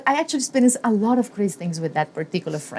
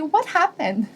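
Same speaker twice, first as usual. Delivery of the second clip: casual; 4 semitones higher than usual. Retold or imitated. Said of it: "ask very casually".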